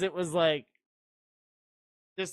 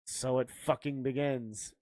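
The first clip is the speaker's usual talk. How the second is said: lower, muted annoyance; annoyed; 4 semitones lower, 4 dB quieter than usual. Retold or imitated. Co-host mimicking a failed chilling line, mildly annoyed. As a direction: say it as a grumble, mock-irritated. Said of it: "It just seems like you're annoyed".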